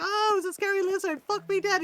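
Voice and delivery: imitating Aussie narrator. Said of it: "He's like".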